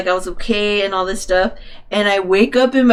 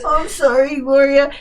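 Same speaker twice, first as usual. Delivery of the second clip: put-on drunk apology; 4 semitones higher than usual. Drunk friend's apology acted again.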